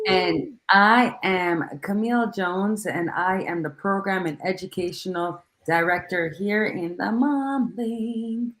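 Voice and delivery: slow, smooth radio host delivery; sexy radio voice. Real, not acted. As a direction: purr it out like a late-night DJ. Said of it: "she got that sexy radio voice".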